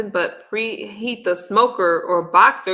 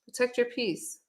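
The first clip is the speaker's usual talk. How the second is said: "Protect your peace" said softer with a falling close; soft repeat; 2 semitones higher, 7 dB quieter than usual. Shown as a demonstration. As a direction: let the repeat sink in quietly. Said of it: "don't come out here trying to defend yourself".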